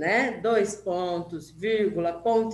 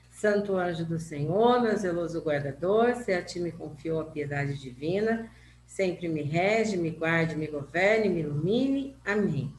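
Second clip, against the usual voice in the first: slow, devout prayer recital; 3 semitones lower than usual. Acted. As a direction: recite it gently like a children's prayer.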